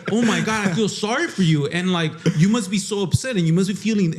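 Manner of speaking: hammed-up sympathy from the designer; sympathetic designer. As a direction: mimic an overly sorry coworker, laughing at him. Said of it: "he was just like".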